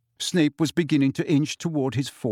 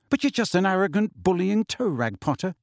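higher, scornful telling-off; cold scorn; 6 semitones higher than usual. A narrator's reading. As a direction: put the bully down coldly. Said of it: "she said coldly".

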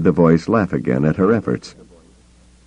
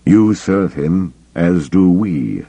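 sinister voice; slower than usual. Acted. Emperor-like voice speaking to Mara.

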